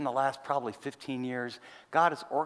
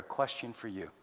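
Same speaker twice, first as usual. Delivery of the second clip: ordinary delivery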